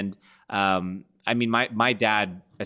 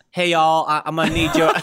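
put-on louder, higher goofy Austrian accent; bad Arnold accent; 6 semitones higher, 6 dB louder than usual. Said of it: "horrible Arnold accent".

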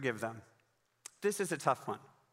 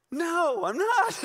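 high, loud refusal; hammed-up high-pitched protest; mock defiant yell; 14 semitones higher, 8 dB louder, much slower than usual. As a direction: shout it back like a stubborn kid. Acted refusal to the pastor.

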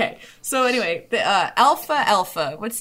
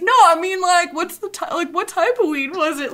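eager amateur question; 7 semitones higher than usual. Retold or imitated. Retold amateur stoner question.

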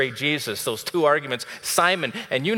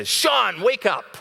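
sharp wake-up call, much higher and louder; calling out to wake him; 10 semitones higher, 6 dB louder, much slower than usual. Retold or imitated. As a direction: shout the name to jolt someone awake. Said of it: "Jesus would look at me and say".

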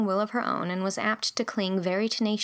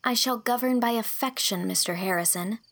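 much higher, firm refusal; indignant young girl; 4 semitones higher than usual. Acted. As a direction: protest earnestly. Girl stating ideals.

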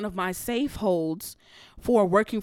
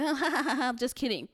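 laughing mock quote; 4 semitones higher, 4 dB quieter, slower than usual. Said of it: "was like".

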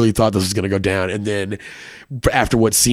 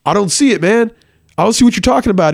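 a much higher, whiny call from inside the closet; puzzled frat boy; 10 semitones higher, faster than usual. Retold or imitated. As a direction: complain that nothing is there.

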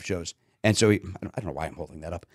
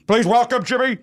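announcer call; 12 semitones higher, 4 dB louder than usual. Retold or imitated. Announcer introduction quoted.

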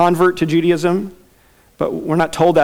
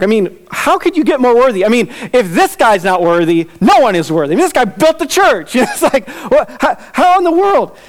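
rising higher into a laughing, squeaky how in the world; amazed disbelief with a laugh; incredulous excitement; 5 semitones higher than usual. Real, not acted. Preacher marvelling at the centurion's gifts, incredulous.

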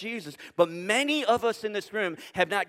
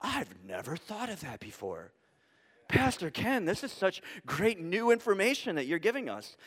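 mock amazement; 3 semitones lower, 6 dB quieter than usual. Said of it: "you're going".

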